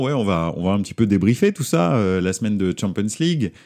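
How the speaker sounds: hoarse, voice half gone. Real, not acted. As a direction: talk through a lost voice. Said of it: "Oui, j'ai perdu ma voix".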